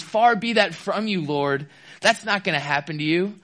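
high, slowed pleading far be that; protesting with earnest alarm. Retold or imitated. Peter protesting to Jesus, high earnest alarm. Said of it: "he says".

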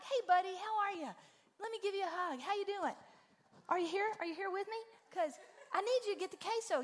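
high, loud, overly bright mom voice; mock cheery parent. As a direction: gush at the kid like a hammed-up chipper parent. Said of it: "I'm not like".

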